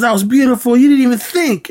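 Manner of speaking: high-pitched imitation of a thrilled mentor; acted-out excited praise. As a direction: gush over a student's punch, retold. Acted praise from film character.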